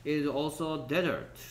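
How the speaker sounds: very slow, dragged out; slow read-aloud. Shown as a demonstration. Teacher reading the desert line slowly to the class. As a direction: read it word by word. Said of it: "teacher reads sentence".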